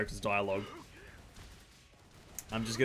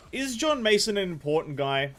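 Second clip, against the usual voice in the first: excited question; 8 semitones higher, 7 dB louder than usual. Real, not acted. Asks loudly, pitched up.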